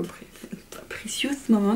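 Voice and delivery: "Precious Moment" whispered, trying an English accent; hesitant whispered retry of "Precious Moment" in English; whispered English accent attempt. Shown as a demonstration. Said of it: "mon accent anglais". ("Precious Moment" chuchoté avec un accent anglais hésitant)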